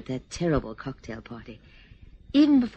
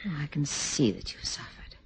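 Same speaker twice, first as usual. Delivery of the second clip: whispering; 6 dB quieter than usual. Acted. Comforting him.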